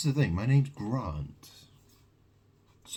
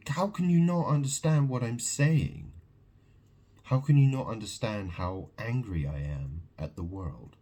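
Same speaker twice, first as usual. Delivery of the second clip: raised, exasperated demand; angry rant. Real, not acted. Ranting at viewers who won't understand, angry. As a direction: plead with rising anger at the listener.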